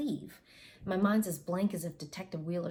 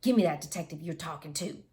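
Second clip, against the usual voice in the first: louder, angry dad demanding the phone; spitting anger; 5 dB louder than usual. Retold or imitated. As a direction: bite it out at the detective. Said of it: "he spits".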